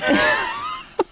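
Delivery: high bright burst of laughter. Real, not acted. Guest laughs at her own rude joke, high burst of laughter.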